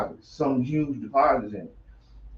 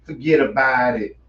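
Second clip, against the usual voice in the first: put-on New Jersey mob accent, a bit louder; Vinny impression; 5 dB louder than usual. Host doing Vinny saying forget about it. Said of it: "I feel like Vinny".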